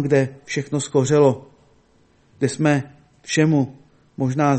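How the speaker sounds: measured, earnest sermon delivery with pauses; preaching. Acted. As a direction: preach to the congregation, rising on hope.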